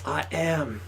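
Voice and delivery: a lightly voiced self-help tape; affirmation tape voice. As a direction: murmur it like a sleep tape. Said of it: "subconscious tapes right now that says".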